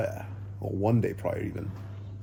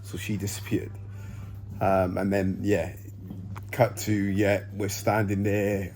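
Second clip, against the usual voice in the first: on a massage chair. Real, not acted. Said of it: "sorry, I'm on the massage chair".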